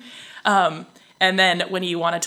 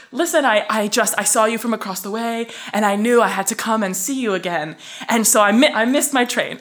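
louder, insistent retold plea; eager explaining; 3 semitones higher, 5 dB louder than usual. Man explains why he crossed over to her, eager plea.

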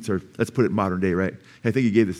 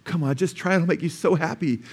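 lightly voiced stewardess, high and coaxing; a hint of timid, pleading persuasion; 5 semitones higher, 3 dB quieter than usual. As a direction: coax gently in a raised pitch. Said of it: "she's kinda timid".

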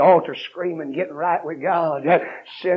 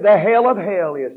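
fiery quote; 5 semitones higher, 10 dB louder than usual. Retold or imitated. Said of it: "Mister Spurgeon said".

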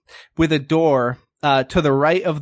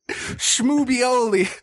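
higher, pushy interrogator; gruff bad cop; 9 semitones higher, much slower than usual. Pig cop Porkmeister grilling the frog, pushy and higher. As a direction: lean on the suspect hard. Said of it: "a lot more gruff".

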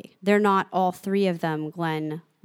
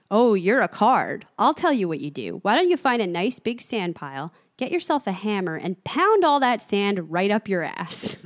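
mocking Glenn; 4 dB louder than usual. Laughing prisoner tells Flag off, mocking. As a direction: needle him with leisurely mock-friendly advice.

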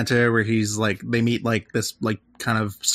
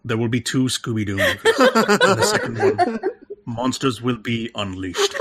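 laughing prophecy. Pretend. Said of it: "mock prophecy as Doctor".

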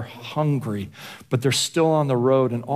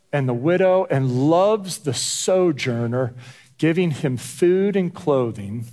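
slow, measured Bible reading; scripture reading. Acted. Pastor reading Deuteronomy to the congregation, slow and solemn. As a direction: read the verses slowly and deliberately.

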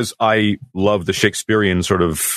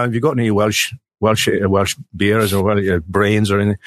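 put-on Welsh accent. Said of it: "I talk my Welsh accent as well".

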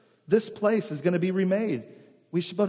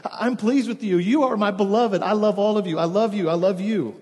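louder and higher, calling out in delight; calling out joyfully; 4 semitones higher, 4 dB louder than usual. Acted. God the Father calling out to his beloved, loud and joyful. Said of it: "And I call out".

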